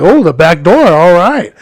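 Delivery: lightly effeminate imitation; a hint of a feminized male customer; feminized guy. Customer answers the driver about the back door, lightly feminized. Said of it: "I feminized it a little bit".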